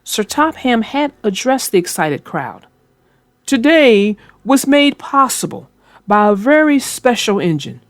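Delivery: put-on storybook reading voice for kids; gentle read-aloud narrator; story narration. A narrator's reading. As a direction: read it like a bedtime tale. Narrates a children's train story.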